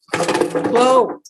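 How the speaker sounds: sudden high startled whoa; surprised whoa. Real, not acted. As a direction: caught off guard as a frog leaps away. Frogs escape across the room.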